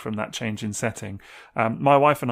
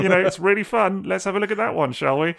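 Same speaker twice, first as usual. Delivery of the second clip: mock cheerful pitch; 8 semitones higher, 4 dB louder than usual. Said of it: "now I'm at the stage of, like".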